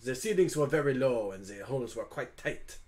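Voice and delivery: put-on inquisitive French-accented character; Hugo, curious and flattering. Hugo asks the dragon about flying, curious French accent. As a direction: probe politely with flowery praise.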